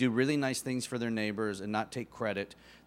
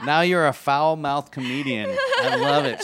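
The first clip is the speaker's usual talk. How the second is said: laughing; 7 dB louder than usual. Real, not acted. Laughing at foul-mouthed comedian.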